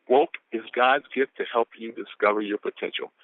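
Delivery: deliberate, evenly spaced quote; unhurried, measured reading; real slow reading. Shown as a demonstration. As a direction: read it carefully, word by word. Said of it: "I can read this real slow".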